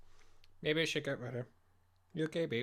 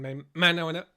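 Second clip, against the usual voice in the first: real voice break, suddenly louder; 7 dB louder, faster than usual. Real, not acted. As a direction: let the voice crack mid-phrase. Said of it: "my voice broke then".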